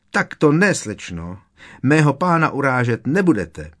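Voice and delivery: high, loud screech of protest; shrieky high-pitched scolding. A narrator's reading. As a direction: screech like an outraged little elf. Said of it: "zavřeštila".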